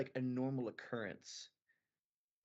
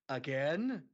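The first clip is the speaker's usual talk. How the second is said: loud, drawn-out incredulous AGAIN; exasperated question; 6 dB louder than usual. Pretend. Brother to experimenting sister, exasperated AGAIN. Imagined weary reply of the brother.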